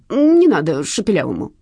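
understated whimpering thief; wailing plea. A narrator's reading. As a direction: plead with a touch of a wail. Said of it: "причитал карманник".

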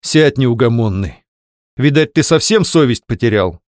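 a wife suddenly turning harsh on her husband; grating rebuke. Acted. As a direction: scold him, hard and grinding. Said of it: "вдруг проскрежетала Твёрдышева".

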